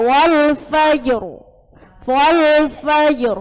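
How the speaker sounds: "Wal fajr" with the r thick and heavy. Shown as a demonstration. Teacher repeating the right reading for students, heavy r. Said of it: "Tapi tebal".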